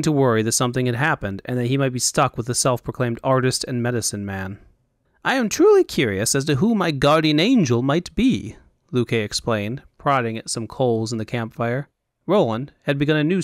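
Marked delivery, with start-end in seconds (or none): 5.2-8.6 lightly voiced fop, lilting and higher; curious fop. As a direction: muse aloud in a higher, theatrical lilt.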